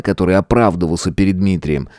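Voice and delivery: usual speaking voice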